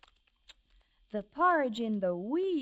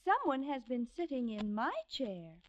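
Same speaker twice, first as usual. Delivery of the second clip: middle-sized voice; 2 semitones higher than usual. Acted. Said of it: "in her middle-sized voice".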